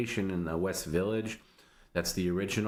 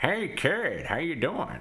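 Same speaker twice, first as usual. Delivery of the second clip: very high, swooping, weird oddball voice; 9 semitones higher, 3 dB louder than usual. Remind a friend how a weirdo who called all the time sounded, with a Don Wilson impression. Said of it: "and he sounded like this".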